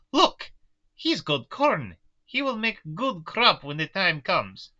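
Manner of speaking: put-on high, slow, accented farmer exclaiming. Quoting the farmer's words.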